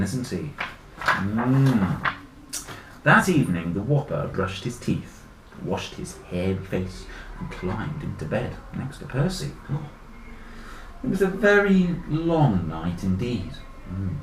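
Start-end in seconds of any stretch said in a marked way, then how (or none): 3.0-13.5 deliberate bedtime part of a tale; story narration. A narrator's reading. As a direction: tell it to young children, settling lower. Reads story aloud to children.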